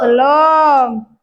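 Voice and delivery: shouted chorus answer. Real, not acted. Children shouting their answer back to the teacher. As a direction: call it out sharply to the teacher.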